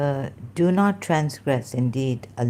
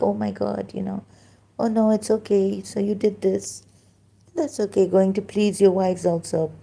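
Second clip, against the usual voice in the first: higher, gentle, indulgent, mocking tone; mock sweet talk; 5 semitones higher than usual. Mocking Allah soothing the Prophet, higher sweet gentle voice. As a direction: soothe him sweetly, all is forgiven, with sarcasm. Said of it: "sweetly speaking, gently".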